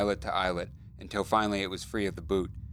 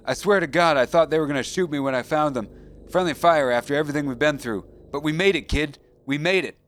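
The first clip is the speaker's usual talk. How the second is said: near tears; 6 semitones higher, 6 dB louder than usual. Acted. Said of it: "Dalton was almost crying now".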